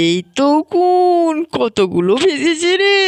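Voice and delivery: mother finds lice, surprised; surprised discovery. Acted. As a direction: gasp it out, amazed. Finds lice in child's hair.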